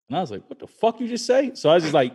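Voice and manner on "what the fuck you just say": retold angry confrontation. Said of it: "flipped out and just went into, like, attack mode".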